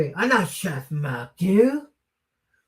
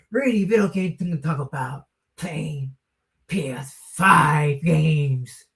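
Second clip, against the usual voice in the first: wrestling promo; 2 semitones higher than usual. Pretend. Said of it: "I should do that in my voice".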